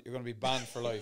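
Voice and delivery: laughing through the words. Real, not acted. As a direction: say it while laughing. Laughing at own joke.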